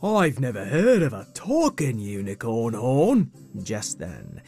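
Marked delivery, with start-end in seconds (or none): 0.0-3.3 surprised Pegasus voice; wide-eyed friendly character voice; River voice. Acted. River answers the horn.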